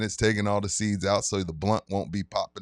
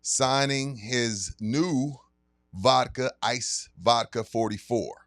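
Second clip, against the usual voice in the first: sponsor ad read. Acted. Host reads liquor store sponsor ad to listeners, hype announcer voice. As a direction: sell the event like a radio spot.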